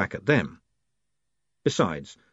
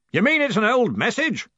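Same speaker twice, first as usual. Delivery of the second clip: booming; 12 semitones higher, 4 dB louder than usual. A narrator's reading. Ridcully booming.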